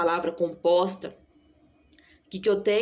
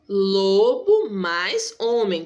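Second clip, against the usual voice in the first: slow, split words; 4 dB louder, much slower than usual. Shown as a demonstration. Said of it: "duas palavras".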